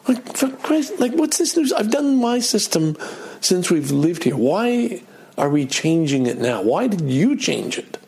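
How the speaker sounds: replaying his irritated grumble at his wife; frustrated rant. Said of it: "And I get frustrated".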